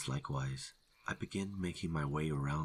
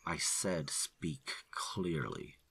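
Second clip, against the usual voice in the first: menacing; slower than usual. Acted. Ranger repeating threat.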